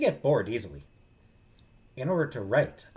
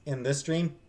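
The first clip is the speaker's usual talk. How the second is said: louder, breaking off to address the viewers; calling out to chat; 6 dB louder than usual. Real, not acted. Streamer telling chat which topic is off-limits, loud call-out. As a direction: raise the voice to grab the chat.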